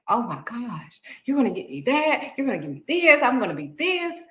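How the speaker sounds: put-on high-pitched, gushing like a child; excited kid. Believer hearing God's plan, excited kid. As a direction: rattle off the promises like a thrilled kid. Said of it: "we're like kids".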